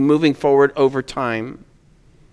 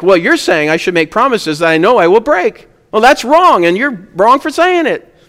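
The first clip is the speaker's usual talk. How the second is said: mock indignant objector; 4 semitones higher than usual. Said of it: "the challenge is thrown back at me".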